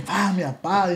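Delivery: "Fuck, mi papá" said through a laugh; laughing retelling. Retold or imitated. Retelling the arrest to the host, laughing at himself. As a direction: laugh as you quote "mi papá".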